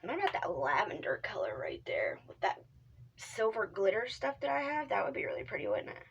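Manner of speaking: soft unvoiced whisper. Real, not acted. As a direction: hush it, like a quiet aside. Whispers while picking makeup colors.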